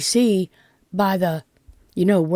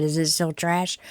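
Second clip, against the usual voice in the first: softer repeat, rising on trash; quiet; 3 semitones lower, 7 dB quieter than usual. Shown as a demonstration. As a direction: say it again softly, lift trash. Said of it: "So I said".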